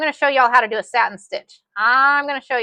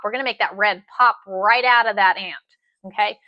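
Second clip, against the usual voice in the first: whisper. Real, not acted. Excited whisper to viewers.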